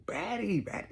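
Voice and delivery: high, loud hype; hyped exclamation. Real, not acted. Man hyping his teacher as the baddie, excited.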